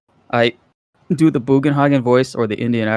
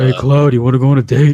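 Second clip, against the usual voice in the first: mock girl voice; 7 dB louder than usual. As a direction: play a girl character asking Cloud out as a joke. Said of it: "push the vocal cords down".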